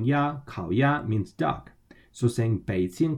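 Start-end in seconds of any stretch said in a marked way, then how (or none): 0.0-0.4 "ya" held high and level; first tone. Shown as a demonstration. Teacher models the syllable for learners, first tone. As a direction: keep "ya" up high, Mandarin first tone. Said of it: "in the first tone".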